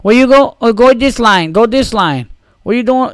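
high, loud, barked directions in a mocked Latino accent. Airport staff herding travelers into lines, mock Latino accent and yelling. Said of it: "Fucking Latino accents and shit".

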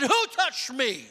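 slow, questioning Jesus; Jesus turns and asks who touched him, slow and searching; Jesus asking. Retold or imitated. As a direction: ask it slowly, searching the crowd. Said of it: "he turned around and said".

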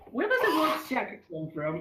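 laughing while asking; giggling through the question. Real, not acted. Cracking up at the word.

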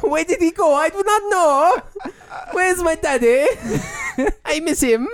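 very high, mock-tearful pet voice; Rolf. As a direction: wail like a left-behind puppy, hammed up. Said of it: "the Rolf voice".

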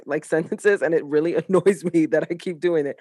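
laughing through the words; amused chuckle mid-sentence. Real, not acted.

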